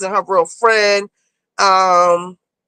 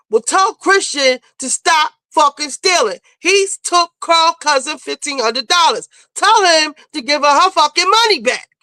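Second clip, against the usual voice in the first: insistent demand; 4 semitones higher than usual. Retold or imitated. Retells Evelyn demanding money back.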